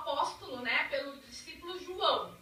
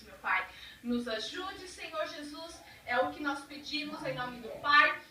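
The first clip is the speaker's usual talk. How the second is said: prayer. Acted. Leads a class prayer.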